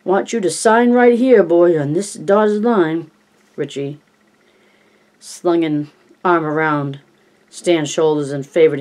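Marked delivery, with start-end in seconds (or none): 0.0-3.1 much higher, louder, slow announcer voice; newsreel announcer voice. Retold or imitated. Richie signing Stan up as a newsreel announcer. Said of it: "in the movie tone announcer's voice".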